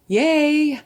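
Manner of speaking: high, loud, held-out yay; a long, high whoop of joy; delighted cheer. Real, not acted. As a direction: cheer in real delight at a lucky draw. Delighted at the card drawn.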